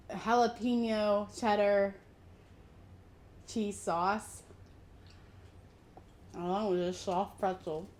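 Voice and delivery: talking with a mouth full; chewing through the words. Real, not acted. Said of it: "I'm sorry I'm eating with my mouth full".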